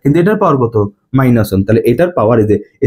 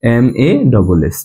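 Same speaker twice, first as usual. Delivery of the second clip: slow spelling; 2 semitones lower, much slower than usual. Shown as a demonstration. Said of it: "ভর হচ্ছে ম্যাস".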